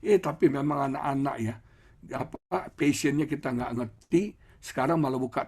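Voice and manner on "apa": ordinary delivery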